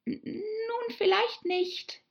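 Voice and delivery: high, hesitant placating voice; soothing. A narrator's reading. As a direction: give in hesitantly to calm someone upset. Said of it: "sagte Alice besänftigend". (zögernd besänftigend, in hoher Stimme)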